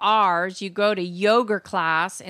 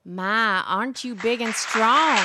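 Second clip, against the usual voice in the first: put-on Texas accent. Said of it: "you sound like the chick on".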